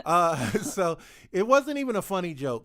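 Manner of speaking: amused, laughing it off. Real, not acted. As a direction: chuckle at your own bad joke. Laughing at his own joke.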